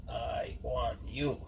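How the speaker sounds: slow, quiet mock summons; understated, drawn-out poster slogan; Uncle Sam. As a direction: draw it out like a recruiting call. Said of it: "like I'm Uncle Sam".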